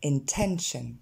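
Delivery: "intention" opening on a short en-like sound; pronunciation model. Shown as a demonstration. Teacher training learners on the E sound, pronunciation model. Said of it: "Encore une fois".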